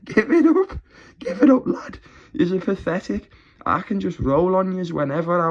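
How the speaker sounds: high, loud jeering through laughter; mock them while laughing; cackling give it up; laughing taunt. Real, not acted.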